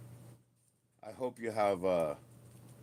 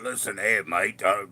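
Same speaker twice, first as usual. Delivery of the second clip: Aussie bloke impression. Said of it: "over bravado, over big, you know, Aussie guy".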